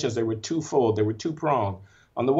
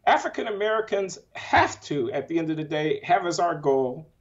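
emotional; 5 semitones higher than usual. Real, not acted. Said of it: "I'm sorry if I seem to be emotional".

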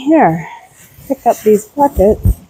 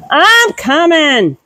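calling out; 8 semitones higher, much slower than usual. Real, not acted. Calling out to the animals.

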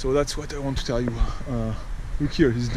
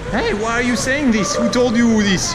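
higher-pitched parental challenge; retold scolding; 5 semitones higher, 3 dB louder than usual. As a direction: act out questioning a child in alarm. Parent scolding his kid, retold.

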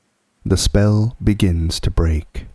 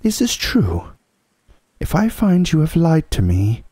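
threatening witch; 10 semitones higher than usual. Acted.

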